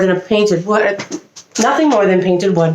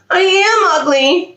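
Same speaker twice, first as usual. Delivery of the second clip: much higher and slow, a storybook sob; mock crying; 9 semitones higher, slower than usual. A narrator's reading. Duckling sees his reflection and cries, hammed-up slow sadness. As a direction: let it quaver out slowly like a sad little duckling. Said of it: "he cried".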